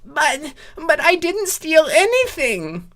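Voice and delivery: high panicked whine; high pleading protest; wailing. A narrator's reading. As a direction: wail it in squeaky panic. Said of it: "Spike wailed".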